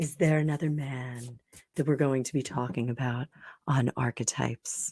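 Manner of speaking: very low, soft late-night radio announcer voice. Prompted by a co-speaker, repeating the question in a radio announcer voice. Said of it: "Do the radio voice".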